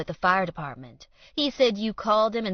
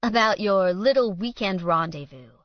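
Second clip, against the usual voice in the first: taunting; 2 semitones higher, 4 dB louder, faster than usual. Acted. Villain taunting rival in confrontation.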